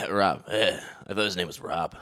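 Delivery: a hint of a sheepish guy brushing it off; mock Brendan. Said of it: "That's not how he talks".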